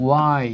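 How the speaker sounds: "why" starting with a plain w, no h; correct pronunciation. Shown as a demonstration. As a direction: model "why" as wai. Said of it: "not why".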